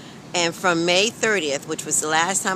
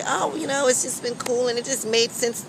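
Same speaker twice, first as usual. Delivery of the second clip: mock breezy; 5 semitones higher than usual. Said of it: "I'm not gonna front and say".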